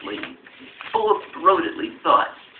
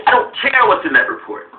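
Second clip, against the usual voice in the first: loud mock quote; 4 semitones higher, 6 dB louder than usual. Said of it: "Malcolm Nance on the other show was saying".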